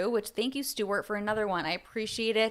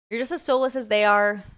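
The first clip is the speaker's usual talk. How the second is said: louder, hitting soulless hard; louder emphatic reread; 6 dB louder than usual. Shown as a demonstration. Rereading the tweet to chat, louder and emphatic. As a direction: punch it out the second time. Reading a tweet aloud, twice.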